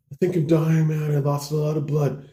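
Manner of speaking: high, plaintive voice; lightly hammed-up distress; mock-dying complaint. Injured bro tells his buddy he's dying, plaintively.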